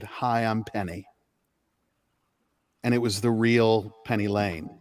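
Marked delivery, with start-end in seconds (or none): 0.0-1.1 soft smiling hello. Retold or imitated. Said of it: "she smiled at me and said".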